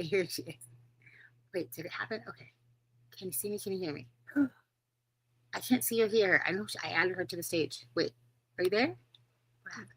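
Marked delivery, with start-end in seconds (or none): none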